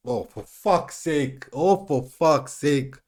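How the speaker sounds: slow, drawn-out frustrated swearing; exasperated cursing. Real, not acted. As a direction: groan the curse out. Cursing at late goal, slow.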